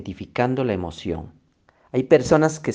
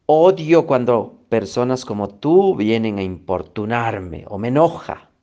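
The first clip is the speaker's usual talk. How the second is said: cliente alterado; 5 dB louder than usual. Acted. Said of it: "¿Y por qué estás alterado?".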